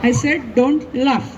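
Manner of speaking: slow, low, deliberate scolding; very slow stern warning. Acted. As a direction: drag each word out, low and stern. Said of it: "हसू नको".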